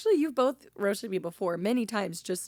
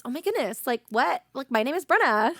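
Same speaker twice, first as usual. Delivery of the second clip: kid's impression of her; 4 semitones higher, 4 dB louder than usual. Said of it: "did a great rendition of me".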